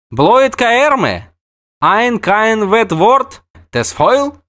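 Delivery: the pretty dryad scoffs at the witcher's name; scornful dryad. Acted. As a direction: toss the words out with a sneer. Dark-haired dryad scoffing.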